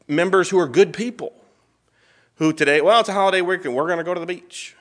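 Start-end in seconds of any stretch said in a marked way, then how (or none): 2.8-4.8 higher, casual churchgoer voice; mimicked excuse. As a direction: lightly imitate someone shrugging off church. Mimics church members' holiday excuse.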